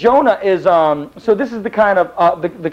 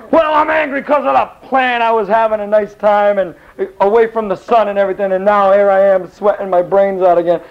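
complaining Jonah; 4 semitones higher than usual. Acted. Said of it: "And he says".

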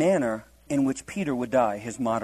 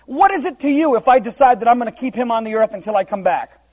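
mild scolding; 6 semitones higher, 7 dB louder than usual. Retold or imitated. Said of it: "Jesus gets mad at him".

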